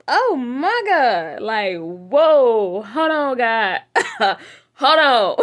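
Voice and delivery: loud, high laughing exclamations; overwhelmed, laughing it off; laughing disbelief. Real, not acted. Overwhelmed by the list.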